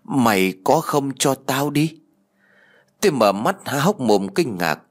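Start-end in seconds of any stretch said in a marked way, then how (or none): 0.0-2.0 gloomy ghost voice. Acted. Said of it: "giọng của nó âm u".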